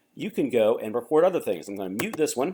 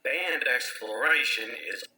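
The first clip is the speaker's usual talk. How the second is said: slowed down; slower than usual. Shown as a demonstration. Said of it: "Or make yourself slower".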